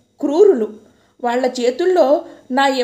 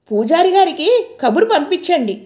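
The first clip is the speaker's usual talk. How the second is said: another woman's voice; 4 semitones higher than usual. Retold or imitated. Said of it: "అంటోంది ఇంకో గొంతు".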